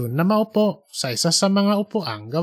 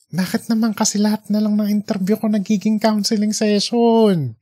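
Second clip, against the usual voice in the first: grumbling to himself; 5 semitones higher than usual. A narrator's reading. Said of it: "Bubulong-bulong ng parang sira".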